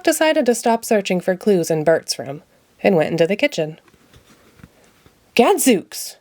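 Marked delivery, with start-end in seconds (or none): 5.3-6.2 exclaiming. Acted. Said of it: "he cried".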